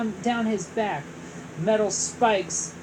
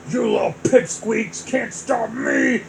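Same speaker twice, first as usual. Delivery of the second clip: bragging; 2 semitones higher, 5 dB louder than usual. Acted. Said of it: "Bowser bragged".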